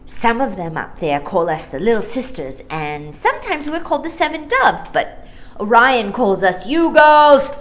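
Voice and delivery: put-on high, loud, breathless little girl; excited little voice. Maya to Jane and Michael, excited high little voice. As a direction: spill it all out in a rush. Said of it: "burst out again in her excited little voice".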